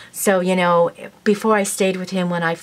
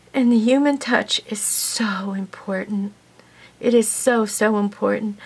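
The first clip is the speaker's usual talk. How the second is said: tearful whisper; 2 semitones higher than usual. Real, not acted. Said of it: "forgive me if I cry".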